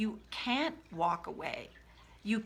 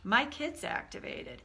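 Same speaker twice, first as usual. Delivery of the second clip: higher-pitched acted whoa of noticing; startled realization; 6 semitones higher than usual. Healthy adult self noticing the child, startled realization. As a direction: catch yourself with sudden mild surprise. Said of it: "the part of us that's like".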